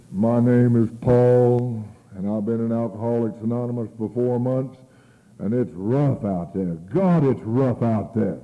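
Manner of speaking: slow, drawn-out meeting speaker; mock weary testimonial. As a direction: labour each phrase like a hard-luck case. Mimics weary man who saunters up.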